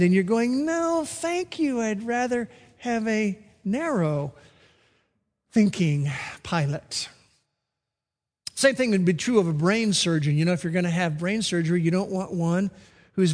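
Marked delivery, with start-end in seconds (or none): 0.7-7.1 mock refusal. Imagined passenger refuses the pilot.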